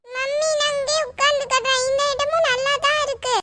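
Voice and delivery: put-on high, sweet little child voice; small girl's voice. Little girl telling her mummy she likes the new seat, high and sweet. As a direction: chirp it like a pleased little girl.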